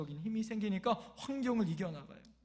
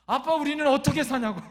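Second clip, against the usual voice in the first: loud, higher-pitched imitation of a distraught daughter; mock crying wail; 5 semitones higher, 11 dB louder than usual. Eldest daughter complaining to dad about the baby, mock wailing. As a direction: wail it out, hammed-up. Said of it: "첫째 딸이 막 우는 거예요".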